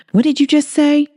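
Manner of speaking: high, startled woman's voice; shocked she heard that right; stunned disbelief. Acted. Holly stunned by the confession.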